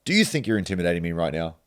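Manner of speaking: quick, cool challenge; calm challenge. Retold or imitated. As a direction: call his bluff. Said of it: "I said to him".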